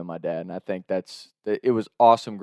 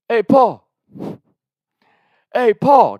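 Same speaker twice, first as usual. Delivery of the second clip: high, loud taunting call; singsong shout to annoy dad upstairs; mock yelling up the stairs; 11 dB louder, much slower than usual. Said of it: "they keep yelling up".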